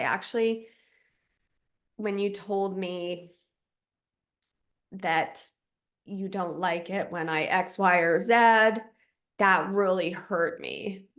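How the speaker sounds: gentle honest. Shown as a demonstration. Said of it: "compassionate self-inquiry and say".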